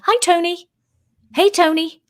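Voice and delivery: high, otherworldly spirit greeting; spirit voices. Retold or imitated. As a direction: voice the spirits calling from the box. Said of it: "spirits flocking to the box and saying".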